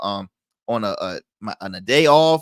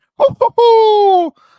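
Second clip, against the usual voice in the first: very high, loud, squeaky squeal stretching ho; 10 dB louder than usual. Wondering aloud about a real-life couple, the speaker breaks into an awful Mickey Mouse impression. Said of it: "that was my Mickey Mouse impersonation".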